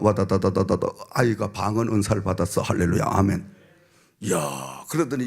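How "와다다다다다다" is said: rapid low babble of tongues; imitated speaking in tongues. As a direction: rattle it off like tongues. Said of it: "기도를 하다가 방언".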